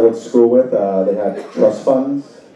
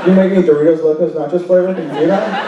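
mock fast-food requests; 4 semitones higher, faster than usual. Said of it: "going to my grandma".

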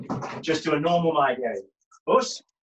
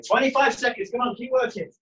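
coach shouting encouragement; 6 semitones higher, faster than usual. Real, not acted. Coach calling time in class.

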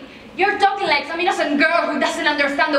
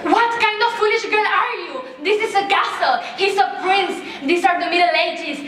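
scolding; 5 semitones higher than usual. Acted. Mother scolds daughter.

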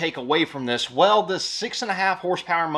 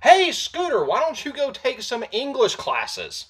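mock sarcastic voice; 9 semitones higher, slower than usual. Correcting the commenter's grammar, high mocking voice. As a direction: talk down to him sarcastically. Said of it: "I think he was trying to say".

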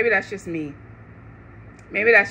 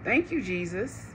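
much softer, hushed thank you; hushed, overwhelmed gratitude; hushed awe; 7 semitones lower, 13 dB quieter than usual. Retold or imitated. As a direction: breathe it like a moved believer. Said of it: "And I'm like".

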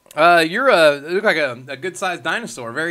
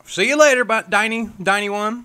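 cheerful goodbye; 5 semitones higher than usual. Real, not acted. Host calling out goodbye.

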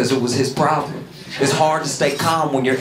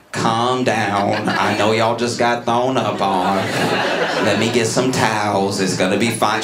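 calm teacher; 6 semitones lower than usual. Retold or imitated. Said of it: "our teacher said".

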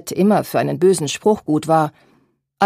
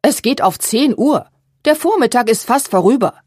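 higher, louder impatient call; irritated call; 5 semitones higher, 5 dB louder than usual. A narrator's reading. Mother annoyed at the late seamstress, loud impatient call. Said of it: "die unwillige Stimme der Mutter".

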